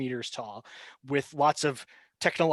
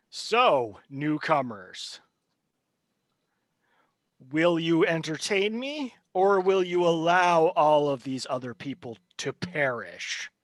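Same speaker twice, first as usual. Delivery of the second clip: taunting villain. Acted. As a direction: dangle the choice in front of them. GM voices the villain figure.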